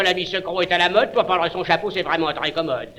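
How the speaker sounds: fast, offhand and breezy; cavalier. Acted. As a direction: toss it off casually.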